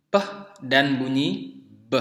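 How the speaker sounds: p and b said as bare sounds, puh and buh; voiceless p, then voiced b, each set apart; sounded-out consonants. Shown as a demonstration. Teacher introducing two sounds to learners, sounded-out p and b. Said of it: "kita akan lihat di sini ada bunyi".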